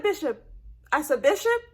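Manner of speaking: rising urgent call of Bishop; calling Bishop, alarmed; calling his name. Retold or imitated. Calling out to dying character.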